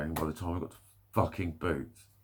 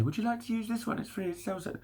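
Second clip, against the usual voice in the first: high, put-on sales assistant voice; shop staff patter; 13 semitones higher, 4 dB quieter than usual. Wilkinson staff offering the self-service till, mock helpful patter. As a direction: mimic a shop worker in a much higher pitch. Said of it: "when Wilkinson say".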